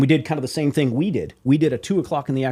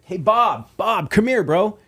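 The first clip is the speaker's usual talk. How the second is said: higher, raised call across the bar; calling over; 8 semitones higher, much slower than usual. Retold or imitated. Musician calling the label boss over, raised and higher.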